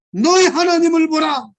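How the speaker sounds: loud, high call to see God; loud preacher's cry; shouted proclamation. Shown as a demonstration. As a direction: proclaim it at full voice. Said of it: "크게 소리치라는 게".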